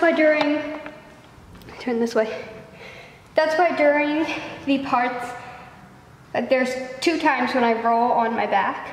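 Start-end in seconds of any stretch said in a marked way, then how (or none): 3.4-8.9 breathless after filming; catching breath while talking. Real, not acted. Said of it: "So out of breath".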